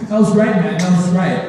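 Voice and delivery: loud mock applause from onlookers; sarcastic praise. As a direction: praise it loudly without meaning it. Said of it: "they're being sarcastic".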